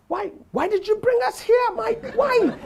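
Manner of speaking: high, hammed-up wail of reproach; anguished complaint. Scared guest reproaches his host.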